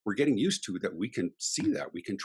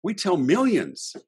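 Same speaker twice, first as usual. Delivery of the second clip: slow emphasis; 9 semitones higher, 4 dB louder, much slower than usual. Real, not acted. Building emphasis for listeners.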